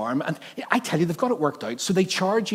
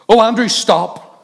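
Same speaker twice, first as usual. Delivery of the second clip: higher, louder, slow cry of warning; alarmed call; 7 semitones higher, 10 dB louder, slower than usual. Retold or imitated. Wife calling to Andrew at the alpaca fence, alarmed shout. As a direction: call out to stop him in alarm.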